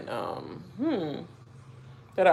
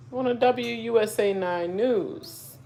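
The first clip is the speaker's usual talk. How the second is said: slow, drawn-out TV news tag; reporter voice; 7 semitones higher, slower than usual. Pretend. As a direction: sign off like a local newscaster. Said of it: "I said it like a, um, reporter".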